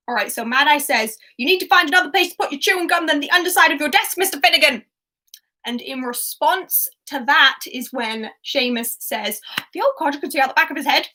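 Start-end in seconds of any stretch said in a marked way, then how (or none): 1.4-4.8 loud, fast gruff teacher scolding; Mad Eye voice. Retold or imitated. Mad Eye scolding Finnegan about the chewing gum, loud and fast. 9.7-11.1 a light attempt at an Irish accent, fast. Seamus's quote read in a quick, slightly Irish accent. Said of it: "my attempt at an Irish accent".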